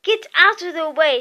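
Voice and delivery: irritated command; snapping. A narrator's reading. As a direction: snap it impatiently. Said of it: "snapped Ron".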